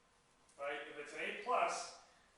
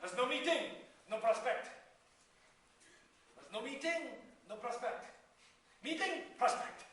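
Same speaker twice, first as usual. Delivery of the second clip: higher, mock French accent; hammed-up French accent, pitched up; 4 semitones higher than usual. Shown as a demonstration. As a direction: put on a playful French accent. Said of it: "This is my French accent".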